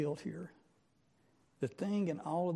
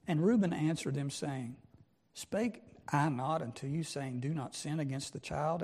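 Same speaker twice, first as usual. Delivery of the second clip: reading the King James text out, measured and solemn; scripture reading. Acted. Preacher reads Joseph's words to the congregation, solemn scripture reading. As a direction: read the old verses with weight, like a preacher at the pulpit.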